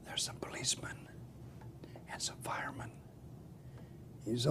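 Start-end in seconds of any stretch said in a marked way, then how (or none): 0.1-2.9 tiny whisper into the phone; hushed child whisper. Acted. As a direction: whisper like a kid hiding.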